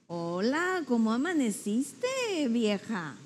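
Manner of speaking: flat, teasing jab on vieja; insinuating. Shown as a demonstration. Husband hinting his wife woke up older, insinuating. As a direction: say it with a sly dig at vieja. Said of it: "Está insinuando que amaneció más vieja".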